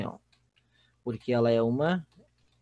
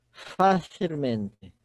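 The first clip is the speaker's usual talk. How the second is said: Facilmente drawn out, first syllable FA stressed; very slow Facilmente, leaning on "Fa"; much slower than usual. Shown as a demonstration. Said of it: "Quarta sílaba tônica". ("Facilmente" bem devagar, com a tônica no "Fa")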